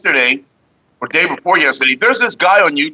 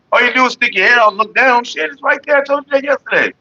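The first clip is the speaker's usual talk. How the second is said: higher, fed-up scolding; exasperated; 8 semitones higher than usual. Real, not acted. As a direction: tell them off, exasperated. Exasperated at chatter.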